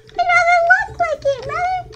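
a cartoonish high-pitched jab; mock high voice. Mocking aside in a put-on voice.

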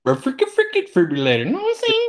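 fast fumbled rant; exasperated. Real, not acted. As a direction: blurt it out, frustrated. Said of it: "I can't even say it now".

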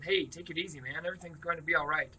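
calm a crying friend gently; easy, concerned. Acted. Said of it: "same easy, concerned voice".

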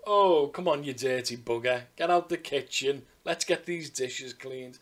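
loud opening, easing as it goes; not nasty scolding. Retold or imitated. Care worker to man licking a plate, slangy good-natured telling-off. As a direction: chivvy him along without malice. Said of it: "Didn't say it in a nasty way".

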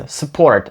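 "Support" almost like "sport"; "Support" as "s'port"; reduced SUPPORT. Shown as a demonstration. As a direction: skim the u in "Support". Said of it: "Звучить майже як спорт".

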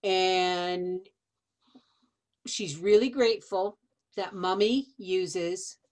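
put-on sweet baby talk. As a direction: coo it like to a pet. Speaks for the dog softly.

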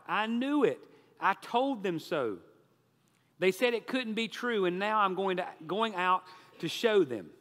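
high, loud triumphant cry; overcome outcry. A narrator's reading. Forgiven debtor to his benefactor, crying out overcome. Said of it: "the poor man, overcome, cried out".

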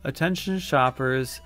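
store PA closing announcement; supermarket announcement. Shown as a demonstration. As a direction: read it like a store intercom. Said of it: "I had to do the closing announcements".

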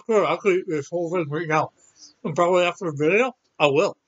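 talking through a mouthful of chocolate bar; words around a bite of candy; mouth full. Real, not acted. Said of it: "sorry for talking with my mouth full".

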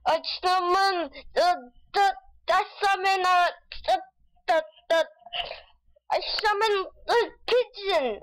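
wizard incantation. Pretend. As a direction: intone it like a mock wizard.

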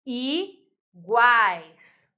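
"iguais" stretched loudly, long i, pause, then guais; tritongo demonstration. Shown as a demonstration. Teacher showing the triphthong, "iguais" very drawn out as i... guais. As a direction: draw out "iguais" with the triphthong held in one beat. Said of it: "Olha o tritongo aqui".

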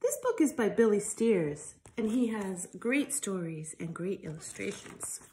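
lively storybook reading voice; reading to children. Acted. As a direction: read it out to little ones with life. Reads picture book to children.

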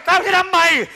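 theatrical villain yell; mock threat shout. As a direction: play the villain striking. Robber threatens to stab.

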